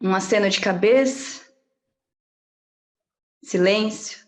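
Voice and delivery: measured reading of a personal chronicle; storytelling delivery with deliberate pauses; literary reading. Acted. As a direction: read your own story aloud, pausing between images. Reads her own chronicle aloud.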